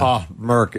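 imitated let-down greeting; disappointed. Host repeating a favorite drop of a colleague, disappointed. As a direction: quote the colleague's disappointed catchphrase. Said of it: "he was so disappointed".

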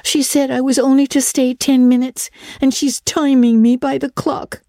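put-on high, plaintive little-girl voice; mournful girl. A narrator's reading. Diana tells Anne they may never play again, mournful. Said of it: "Diana shook her head mournfully".

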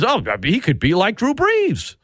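sneering imitation of a fan's take; mocking quote. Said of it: "spare me with the ridiculous".

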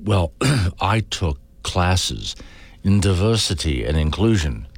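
slow, pompous mock boast; smug graduate. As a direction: drag it out, full of yourself. Mocking proud graduate.

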